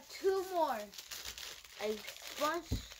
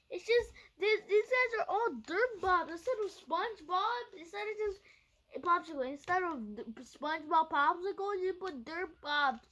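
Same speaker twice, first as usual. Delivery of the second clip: whiny complaint; 3 semitones higher, 3 dB louder than usual. Real, not acted. Complaining about ruined SpongeBobs.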